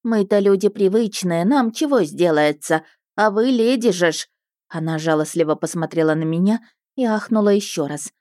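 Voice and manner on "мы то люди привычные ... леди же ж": fussing peasant woman. Acted. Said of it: "приговаривая".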